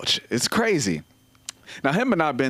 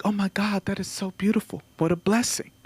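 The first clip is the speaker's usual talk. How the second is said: higher, gushing mock admiration; gushing people; 7 semitones higher than usual. Comic mimicking people hearing about three kids, gushing. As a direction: coo over the news like a proud aunt. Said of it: "they're like".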